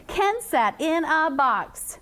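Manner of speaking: slow flowing model sentence; smooth, expressive reading. Shown as a demonstration. Teacher shows the class how reading should flow, smooth and expressive. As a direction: read it slowly with smooth flow. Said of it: "we want to have smoothness in our reading".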